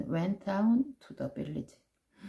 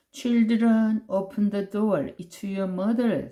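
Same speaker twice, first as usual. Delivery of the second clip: higher, louder fake-mother call; tiger posing as mother; 3 semitones higher, 4 dB louder, much slower than usual. Tiger at the door to children, put-on mother voice. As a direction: coax like a beast pretending to be mom. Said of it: "said the tiger".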